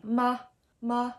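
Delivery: "ma" short, sweet and unstressed; light, short "ma"; neutral tone. Shown as a demonstration. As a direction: say "ma" briefly, without leaning on it. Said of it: "short and sweet and quiet".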